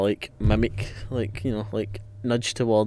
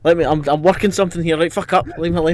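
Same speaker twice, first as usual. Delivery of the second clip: louder and higher; annoyed shushing; 5 semitones higher, 7 dB louder than usual. Real, not acted. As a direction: tell them to leave you alone. Player shushes the table.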